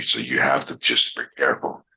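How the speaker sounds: low, measured reassurance; dad's calming voice. Retold or imitated. Dad preparing his son before a dunk, calm and low. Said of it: "teach me to calm down".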